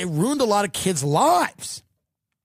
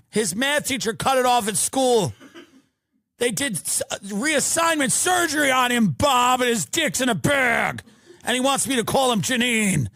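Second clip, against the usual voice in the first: frantic wife calling. Retold or imitated. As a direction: shout the news down the phone to Bob. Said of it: "gotta tell your husband that?".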